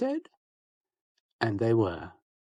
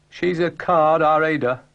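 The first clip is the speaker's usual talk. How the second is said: banana character; 7 semitones higher, 6 dB louder than usual. Acted. Banana character speaking up brightly.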